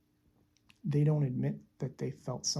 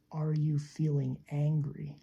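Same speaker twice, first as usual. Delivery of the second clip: open, relaxed question. Shown as a demonstration. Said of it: "So much easier".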